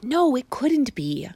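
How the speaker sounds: whispered musing; to himself. A narrator's reading. Boy doubting himself, whispered. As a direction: whisper it to yourself. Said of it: "said the boy to himself".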